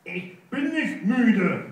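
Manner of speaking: offended hare shouting back; indignant cry. Acted. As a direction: insist on every word. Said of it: "rief Rudi".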